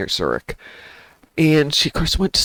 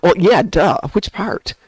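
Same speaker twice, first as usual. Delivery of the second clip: teasing, higher-pitched comeback; retold duh retort; 4 semitones higher, slower than usual. Streamer retelling reply to someone from the UK, teasing. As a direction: toss back an obvious-answer retort.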